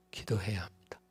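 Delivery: sudden hushed whisper; whispered punchline after the crescendo. Acted. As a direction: drop to a breath after the peak. Hushed drop after loud climax.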